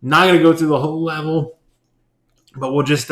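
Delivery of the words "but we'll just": voice cracking. Real, not acted. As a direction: voice cracks on the words. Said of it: "my voice just cracked like a thirteen-year-old boy".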